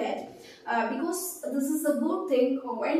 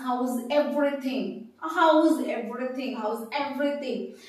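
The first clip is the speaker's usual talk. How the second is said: "how is everything" as a teacher's model phrase, falling at the end; question intonation demo. Shown as a demonstration. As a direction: model "how is everything" with a clear tune that falls on "everything". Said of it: "so intonation is very important".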